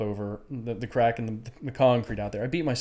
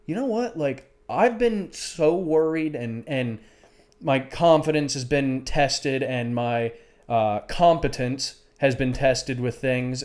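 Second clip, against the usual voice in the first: self-reflection; slower than usual. Retold or imitated. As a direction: talk it through with yourself slowly. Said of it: "And I'm like".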